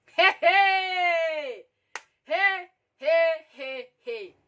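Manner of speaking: loud, high, drawn-out heys; shocked outcry. Retold or imitated. Storyteller reacting to him taking her hand, shocked. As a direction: cry out in scandalized disbelief, then ease off. Outcry at the groping she recounts.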